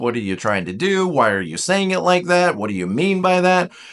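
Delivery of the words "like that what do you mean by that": ordinary talk, nothing marked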